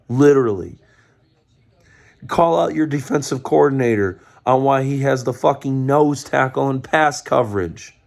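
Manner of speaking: a fan venting fury at his team's head coach; angry rant. Real, not acted. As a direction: tear into the coach, fed up.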